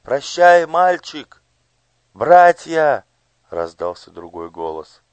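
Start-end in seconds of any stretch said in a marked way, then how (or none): 0.0-1.4 high, loud farewell cry; called out. A narrator's reading. Someone in the crowd calls farewell to Gurt. 2.1-3.0 high, loud call to the crowd; rallying call. A narrator's reading. A voice rallies the crowd. Another voice calls out.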